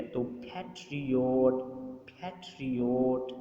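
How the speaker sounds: پیٹریوٹ said slowly with the first syllable پیٹ stressed; stress demo. Shown as a demonstration. Teacher demonstrating پیٹریوٹ to the class, slow, stress on پیٹ. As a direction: model پیٹریوٹ with the weight on پیٹ. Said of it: "stress ہے وہ پی پر ہوگا".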